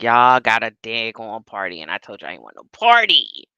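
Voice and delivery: mildly acted livid complaint, low and quick; mock angry telling-off. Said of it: "She's livid".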